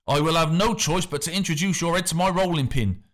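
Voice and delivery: the missus warning off the factor, mildly fierce. A narrator's reading. The missus warns the factor off her family, lightly voiced and firm.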